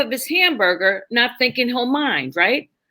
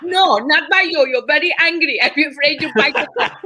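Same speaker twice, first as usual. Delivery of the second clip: put-on Indian accent. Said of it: "do the Indian bit".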